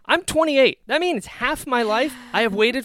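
high and loud, first words drawn out slowly; emotional. Real, not acted. Fan telling co-host how long he waited, high and overwhelmed. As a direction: stretch it out, overwhelmed.

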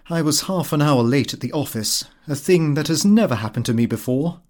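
ordinary delivery, nothing marked

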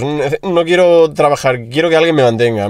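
lightly whined "no quiero trabajar"; whiny mock plea. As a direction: pretend to be a spoiled influencer. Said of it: "como si yo subo un vídeo".

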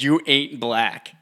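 slow, drawn-out quote; slow quoted line. Retold or imitated. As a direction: drag out each word. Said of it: "He said".

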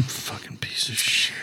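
slow under-breath whisper; whispered jab. Real, not acted. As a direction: hiss it under your breath. Mock insult after being teased.

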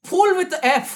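Marathi-accented English, slow. Shown as a demonstration. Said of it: "And their mouth is".

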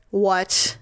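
imitated terse irritation; a touch of annoyance, voice held down; irritated husband. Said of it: "Now he's irritated".

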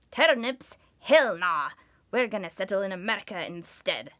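loud, brash put-on Irish accent; mock Irish accent. Host voicing starving Irish immigrants refusing turnips, loud Irish accent. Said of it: "Sorry about the accent".

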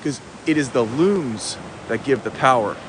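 lofty sermon with sudden soaring emphasis; grandiose preaching. Acted. Host preaching the ocean salt's power to viewers, grandiose. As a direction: proclaim it in weighty, separated phrases.

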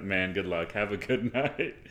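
a man laughing through his goodbye; laughing stranger. Retold or imitated. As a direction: chuckle out the good luck. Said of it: "the guy starts busting up".

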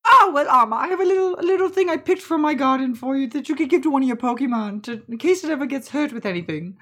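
high, loud auntie voice; generous, fussing auntie. Acted. Auntie giving Amma a garden berry, high fussing voice.

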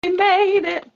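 high, drawn-out grand announcement; dramatic diva. Acted. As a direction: proclaim it like a diva.

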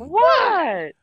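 high, loud mock-innocent "What?"; mimicking rising liar's voice. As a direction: imitate a guilty friend's voice shooting up. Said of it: "Chill voice always go up when he's lying".

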